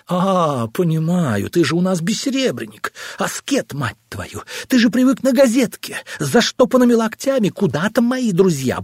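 mock him with venom; spiteful mockery. Wife mocking husband's asceticism, spiteful and high. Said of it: "рассмеялась скрипучим и злым смехом".

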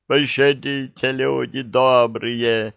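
slow, high begging; pleading. Acted. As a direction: beg for mercy, drawn out. Thieves beg for their lives.

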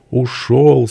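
high, drawn-out weepy word; tearful answer. A narrator's reading. Peasant woman answering what happened, crying. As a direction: wail it briefly through tears. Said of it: "с плачем ответила она".

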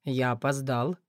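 low offhand male voice; carefree. A narrator's reading. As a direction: toss it off carelessly. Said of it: "заявил беспечно".

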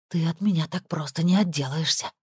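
ordinary delivery, nothing marked

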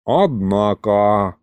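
very slow, sheepish drawl; embarrassed drawl. A narrator's reading. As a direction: draw it out sheepishly. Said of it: "смущённо протянул бес". (смущённо, протяжно)

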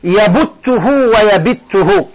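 يبته with u then يبته with i, slowly; two vowel forms. Shown as a demonstration. Teacher showing students both present forms of بت, slowly. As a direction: slowly contrast the damma in يبته against the kasra in يبته. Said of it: "تقول".

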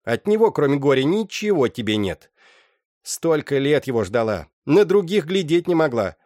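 mother Agna cursing the daughter's lover, loud and high; bitter scolding. Acted. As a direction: spit out the insults at the faithless man. Mother rails at absent lover.

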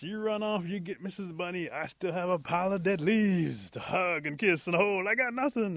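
very high, loud wailing disbelief; moaning protest. Acted. Possum sees Rabbit's new wife, moaning in protest. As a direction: wail it out, hammed-up and hurt. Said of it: "Possum starts to moan and cry".

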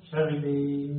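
"شغلة" with a long level "-eh", Levantine style; drawn-out Levantine "shaghleh"; Syrian-Lebanese accent. Shown as a demonstration. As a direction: stretch the last vowel of "شغلة" like a Syrian. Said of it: "لو كنت تنطق بلغة سوري أو لبناني".

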